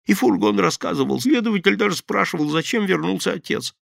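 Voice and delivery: high loud excuses; anxious pleading. Acted. Thief makes excuses to the gang. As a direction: justify yourself, scared.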